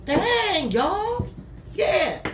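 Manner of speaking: real excitement. Real, not acted. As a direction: burst out at a good card. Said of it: "excited at the card".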